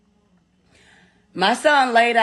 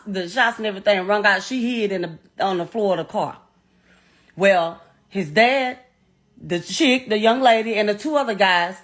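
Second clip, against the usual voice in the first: ordinary delivery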